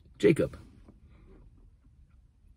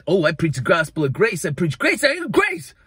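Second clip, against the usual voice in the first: mocking fanatic; 4 semitones higher than usual. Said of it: "the fanatics that".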